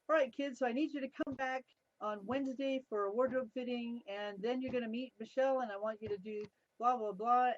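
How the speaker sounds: imitating the boss. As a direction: rattle off orders like a busy boss. Boss giving instructions.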